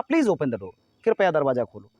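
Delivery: slow, gentle please; polite request. Shown as a demonstration. Teacher showing students a polite request, slow and gentle. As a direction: ask it politely and slowly. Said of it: "और तीसरा".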